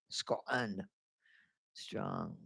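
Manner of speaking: words stretched by a yawn. Real, not acted. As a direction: say it through a yawn.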